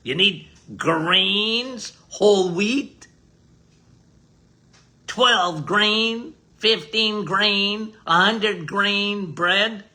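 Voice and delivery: slow, stretched mock sales pitch on grains; mock conventional advice. Mimicking what the world tells you to eat, lightly mocking. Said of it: "What the world tells you to do".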